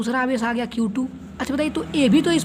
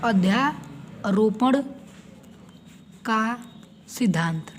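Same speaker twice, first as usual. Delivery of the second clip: slow emphatic term; 2 semitones lower, 5 dB quieter, much slower than usual. Shown as a demonstration. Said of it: "हमें सीखना है".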